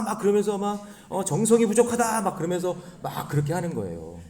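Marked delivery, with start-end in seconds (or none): 1.2-2.2 mock shaman. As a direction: put on a showy shaman cry. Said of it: "생쇼를 하면서". (무당 흉내로 높게 늘여서)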